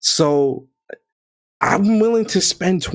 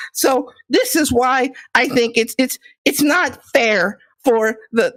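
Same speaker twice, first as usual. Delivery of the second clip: higher, smarmy politician pitch; gaming politician voice; 3 semitones higher than usual. Pretend. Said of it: "Let me put my gaming politician voice on".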